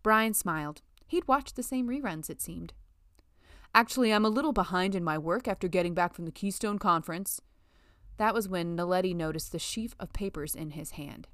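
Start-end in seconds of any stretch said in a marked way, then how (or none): 3.7-7.4 lightly voiced smug male colleague; a hint of a condescending coworker. Brian dumping his work on Letty, lightly voiced and smug.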